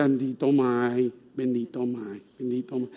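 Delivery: a mild imitation of a whining child. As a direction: beg mom like a crying little boy. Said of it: "yo le lloraba a mi mamá".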